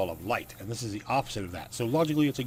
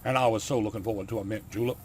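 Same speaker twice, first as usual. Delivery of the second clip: put-on southern accent at a normal pitch; lightly done southern gentleman's accent. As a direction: try the line in a mild southern accent. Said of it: "he's got a southern accent".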